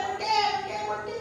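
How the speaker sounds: high, insistent lament on one sustained pitch; desperate pleading. Retold or imitated. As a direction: repeat it relentlessly, pitched high, begging for an answer. Re-enacting her daily desperate questioning.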